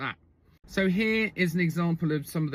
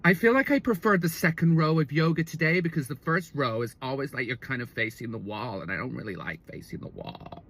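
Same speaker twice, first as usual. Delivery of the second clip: put-on croaky Californian girlfriend. Girlfriend telling him about yoga, trailing croaky voice. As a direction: start normally, then fade into creak. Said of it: "run on and speak like this".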